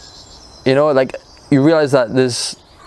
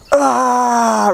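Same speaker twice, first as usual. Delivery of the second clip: long, high mock scream, held back in volume; imitated scream; 12 semitones higher than usual. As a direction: imitate a man letting out a big scream. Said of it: "really loud".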